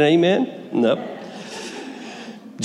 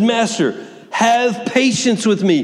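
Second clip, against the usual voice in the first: mild pleading; 5 semitones higher, slower than usual. Acted. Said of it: "He's pleading with him".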